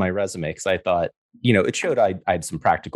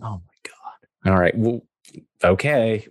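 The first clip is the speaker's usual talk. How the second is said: whispered; 3 semitones higher, slower than usual. Retold or imitated. Stunned inner thought, whispered.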